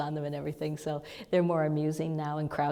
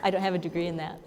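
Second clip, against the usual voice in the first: laughing; 3 semitones higher, 4 dB louder, much faster than usual. Real, not acted. Bob jokes about barking like dog.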